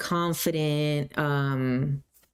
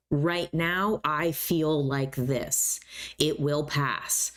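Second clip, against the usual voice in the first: calm, realistic; much slower than usual. Shown as a demonstration. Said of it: "more realistic statements".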